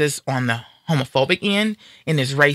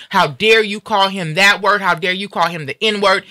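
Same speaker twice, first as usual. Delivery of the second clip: indignant outcry; 3 semitones higher than usual. Pretend. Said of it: "should be saying".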